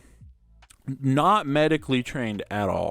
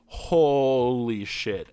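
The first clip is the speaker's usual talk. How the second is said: drugged slur; much slower than usual. Retold or imitated. Drugged by anesthesia.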